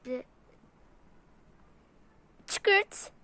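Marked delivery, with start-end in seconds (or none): 2.5-3.1 mock shutter click; camera click sound. Shown as a demonstration. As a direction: imitate the click of a phone camera. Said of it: "Böyle şekilde". (fotoğraf çekme sesi taklidi)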